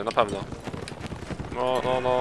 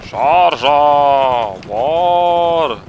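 battle roar; 3 semitones higher, 8 dB louder, much slower than usual. Acted. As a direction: charge shout, loud. Ordering a cavalry charge.

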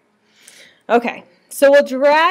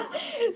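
high giggle; 13 semitones higher, 10 dB quieter than usual. Real, not acted. Laughing after the helium demo.

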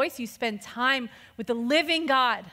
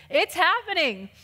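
excited believer; 5 semitones higher than usual. Retold or imitated. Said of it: "and you're like".

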